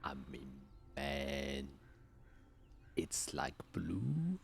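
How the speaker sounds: soft whispered report. Acted. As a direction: whisper it nervously. Hushed description.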